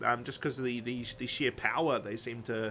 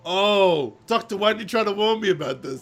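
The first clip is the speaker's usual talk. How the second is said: higher, louder, fast mock complaint; hammed-up villain blaming the Doctor; playful imitation of a petulant Master; whiny Master; 7 semitones higher, 8 dB louder than usual. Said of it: "And the Master's like".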